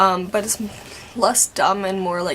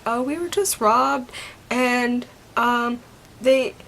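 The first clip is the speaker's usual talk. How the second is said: retold flustered call, halting and higher; tripping over words; 4 semitones higher than usual. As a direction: stumble through a report, pitched up, with broken pauses. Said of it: "I'm, like, tripping over my words".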